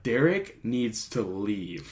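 lightly voiced girlfriend, very slow and drawn out; exasperated girlfriend. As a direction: stretch every word like a fed-up partner laying down the law. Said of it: "My girlfriend will be like".

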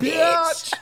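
high, loud imitation of a song's response; playful shouted answer. Teller replaying the answer to a song's question, playful shout. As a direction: throw back the punchline high and loud.

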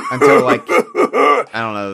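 raspy wheezing smoker voice; smoker's rasp. Pretend. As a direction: croak it out like emphysema. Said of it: "Smokers' coughs".

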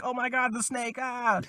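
high, excited squeal over the snake; mock fan squeal. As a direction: gush like a thrilled fan. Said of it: "people were like".

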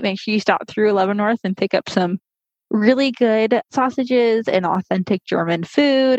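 muffled through a mask; talking with a mask on; through a face mask. Real, not acted. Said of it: "I might sound a little muffled".

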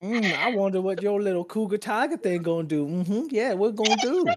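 high mocking purr; taunting villain. GM voicing the grinning Servant teasing the player's cougar, high and mocking. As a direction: sneer down at the little cat.

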